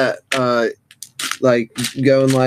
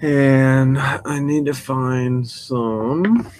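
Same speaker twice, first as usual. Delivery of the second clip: mouth full; 3 semitones higher, much slower than usual. Real, not acted. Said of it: "talk with my mouth full".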